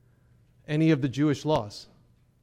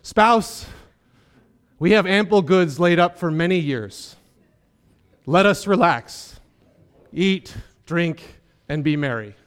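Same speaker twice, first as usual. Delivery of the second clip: loud, self-satisfied rich farmer; a touch louder, pleased with himself; smug rich man; 5 dB louder than usual. Acted. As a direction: boast to your wife about the full barns. Rich man voiced in parable.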